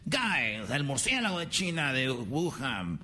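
high, slow mock ring announcer; high drawn-out mock ring announcer. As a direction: introduce the fighter with hype. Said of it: "fight announcer".

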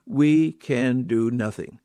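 slow and weighty, each word set down; slow emphatic. Real, not acted. Preacher telling friends they can do nothing without him, slow and weighty. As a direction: let it land slowly, word by word. Preacher stresses dependence on Christ.

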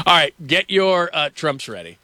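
ordinary talk, nothing marked

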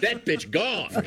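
high, slow mocking voice; mocking falsetto. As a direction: drag it out high and sneering. Mocking the TSA clip.

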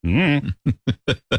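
short wordless silly noises on request; strange noises. Shown as a demonstration. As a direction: make odd little throat sounds. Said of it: "You wanted me to make some noises".

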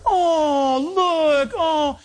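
high doting coo; high gushing oh look. Retold or imitated. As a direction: coo at the baby. Next woman cooing.

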